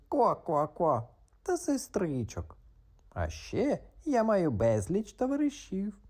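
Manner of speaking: high croaking chatter; excited frog. Acted. Frog gushes about his family, high and excited.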